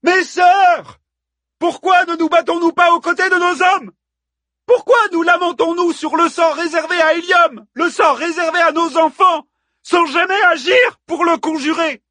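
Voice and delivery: very high, loud rallying speech; haranguing. A narrator's reading. Hippodamie stirs the women of Troy to fight, haranguing. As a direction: harangue a crowd, shouting every question. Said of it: "s'était mise à haranguer les femmes de Troie".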